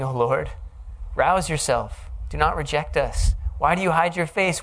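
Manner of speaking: pleading psalm read with rising urgency; a fervent cry to God; urgent plea. Acted. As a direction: call on God to wake up, urgently.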